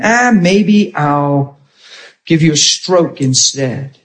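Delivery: slow, drawn-out mock threat; taunting demon. Demon spirit threatening preacher in bathroom, slow taunting. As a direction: toy with your victim, stretching the words. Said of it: "it was taunting me".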